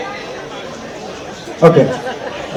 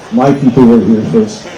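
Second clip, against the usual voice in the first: deadpan comeback; 5 semitones lower than usual. Retold or imitated. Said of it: "without missing a beat".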